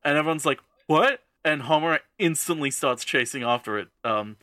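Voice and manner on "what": high, louder startled yelp; collective shock. Retold or imitated. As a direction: blurt it in mock disbelief, pitched up. Everyone's retold shock.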